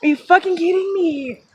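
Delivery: can't believe it, shouting; excited disbelief. Real, not acted. Disbelief at finding arrowhead.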